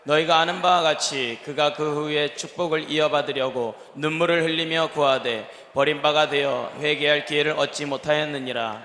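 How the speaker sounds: normal talking voice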